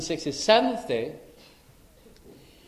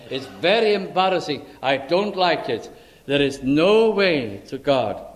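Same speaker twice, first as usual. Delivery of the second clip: emphatic preaching. Real, not acted.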